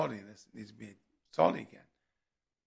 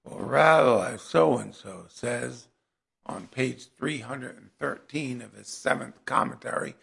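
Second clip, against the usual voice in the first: slow, droning mock pedantic scholar; mock bored scholar; 2 semitones lower, 6 dB louder, slower than usual. Preacher mocking old dry rabbis, slow and droning. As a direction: drag it out like a dull lecturer. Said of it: "bored scholarly stuff".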